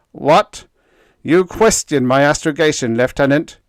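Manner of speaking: loud, high, indignant bark; outraged. A narrator's reading. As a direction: bristle with outrage. Gilchrist outraged.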